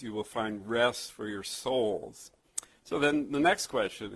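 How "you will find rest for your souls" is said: slow quote ending on a drawn-out "souls"; measured restatement, resting on "souls" at the end; focus on souls. Shown as a demonstration. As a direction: let "souls" fall long and weighted. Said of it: "the focus is on when he says".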